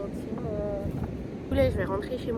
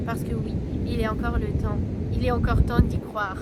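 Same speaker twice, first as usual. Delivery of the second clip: lecture de texte. Acted. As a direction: lecture appliquée d'un texte écrit, un peu solennelle. Reads her prepared text aloud. (lecture posée et appliquée)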